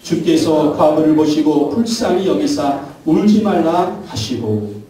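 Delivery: slow, solemn Bible reading; measured sermon scripture read. Shown as a demonstration. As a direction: read the verse aloud slowly to the church. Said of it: "칠 장 십삼 절 읽어보겠습니다".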